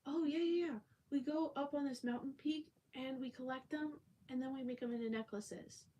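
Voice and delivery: very high, loud eager seller; vendor voice. Retold or imitated. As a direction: chirp it like the cheerful guy. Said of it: "He goes".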